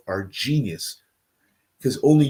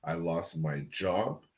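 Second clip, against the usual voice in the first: quiet; 6 semitones lower, 11 dB quieter, slower than usual. Real, not acted. Recounting losing wife and job.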